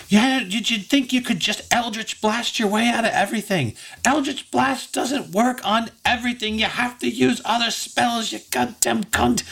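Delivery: high-pitched angry rant; mad Trixie. Acted. Mad Trixie berates crying Effie, angry high voice. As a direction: berate your friend in a high character voice. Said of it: "kinda looking really mad".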